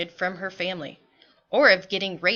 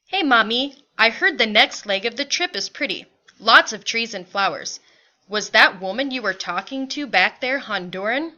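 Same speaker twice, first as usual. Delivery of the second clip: livelier, louder father's line; lightly voiced father; 5 dB louder than usual. Father to mother about the trip ahead, lightly animated. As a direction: play the father chatting, a touch animated.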